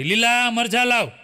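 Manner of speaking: slow drawn-out call into the shop. Retold or imitated. Grocer calling to his helper, a slow mild mock shout. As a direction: call to the back of the shop, slowly. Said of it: "દુકાનમાં બૂમ પાડી".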